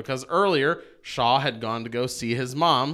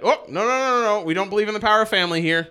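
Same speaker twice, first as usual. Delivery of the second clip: hammed-up villain voice; 3 semitones higher, faster than usual. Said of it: "Eton's like".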